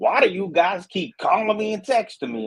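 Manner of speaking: mock, shrill, very high, exasperated yelling. Retelling what the seller said on the phone: imitating someone yelling. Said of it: "he was basically yelling at me".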